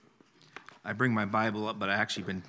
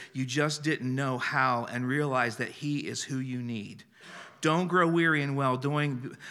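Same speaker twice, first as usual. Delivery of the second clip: prophetic declaration; 2 semitones higher than usual. Acted. Preacher reads the word for the year, solemn declaration. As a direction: proclaim it as the Lord's word.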